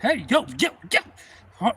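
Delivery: high, loud calls for attention; retold yelling. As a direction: yell to warn him, re-enacted. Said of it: "I'm like yelling at the guy".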